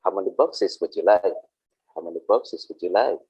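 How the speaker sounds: gentle, courteous "would you like" ask; teacher shows Patricia's polite customer question, courteous. Shown as a demonstration. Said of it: "differently, Patricia says".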